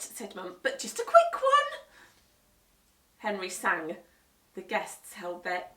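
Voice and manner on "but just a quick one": much higher, louder reluctant okay; weary mum. Acted. Mum allowing Henry's show, reluctant. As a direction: give in grudgingly.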